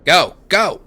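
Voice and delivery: loud urgent Aussie shout. Acted. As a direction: yell him through the door. Escape from guards.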